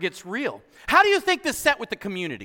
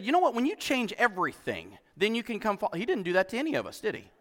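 quiet aside; 5 dB quieter, faster than usual. Pretend. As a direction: drop the voice to a hush. Imagined Jesus, dropping the voice.

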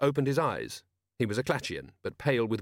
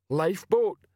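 higher-pitched blunt character voice on "lifeboat"; ponderous Detritus; 8 semitones higher, 4 dB louder, slower than usual. Acted. Detritus agreeing with a shipmate, blunt "lifeboat". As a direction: say "lifeboat" as a simple echo, pitched up.

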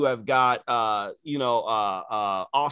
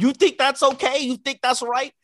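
higher, pointed questions at the viewers; mock challenge; 7 semitones higher than usual. Host challenging viewers with mock indignation. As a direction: needle the audience.

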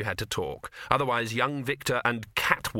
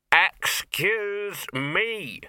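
drawn-out, higher and louder excuse me; 8 semitones higher, 4 dB louder, much slower than usual. Acted. Dog trying to get the trolls' attention, slow loud excuse me. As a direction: finally demand their attention. Dog finally shouts to be heard.

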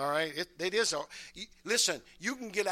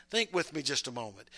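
whispered aside; 6 semitones lower, 5 dB quieter than usual. Real, not acted. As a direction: whisper it to them, soft and close. Intimate aside to congregation.

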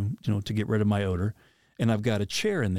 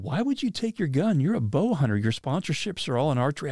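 mildly incredulous, higher-pitched questioning; incredulous buddies; 4 semitones higher than usual. Retold or imitated. Buddies questioning a bow hunter about the gun, mildly incredulous. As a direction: challenge him in retold disbelief.

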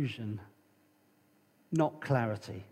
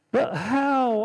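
higher, louder demanding question; listener's objection; 7 semitones higher, 6 dB louder than usual. Pretend. The congregation challenges the preacher, a higher, louder demanding question. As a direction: throw the challenge back at the preacher. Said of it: "I hear you say".

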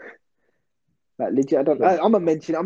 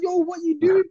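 retold panicked protest; 13 semitones higher than usual. Kid protests teacher's finger.

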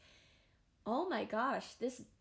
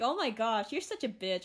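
teasing quote; 5 dB louder than usual. Retold or imitated. Friend teasing her for crying.

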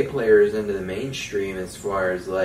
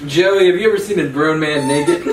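quoted movie pilot line; 6 semitones higher, 9 dB louder than usual. Retold or imitated.

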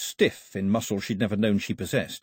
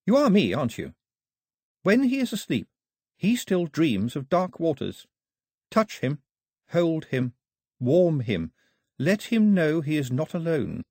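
higher, gently urgent voice; lightly voiced girl; 6 semitones higher than usual. A narrator's reading. The voice urges Daphne to comfort Mao.

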